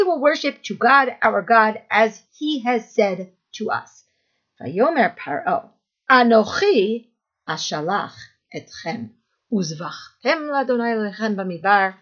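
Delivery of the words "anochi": Anochi set apart, a little louder, with a pause after; stress on Anochi. Acted. Pharaoh answers Moshe in the verse read aloud, stress on Anochi. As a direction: lean on "Anochi" and let it stand alone. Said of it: "Look at the emphasis on the word Anochi".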